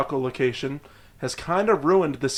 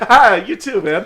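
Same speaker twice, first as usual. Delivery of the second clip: mock cheerful; 5 semitones higher, 8 dB louder than usual. Acted cheerful reply to insult.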